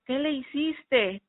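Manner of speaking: father and brother shouting at the daughter; shouting accusation. Retold or imitated. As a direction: hurl the question as a blame. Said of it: "gritándome a mí".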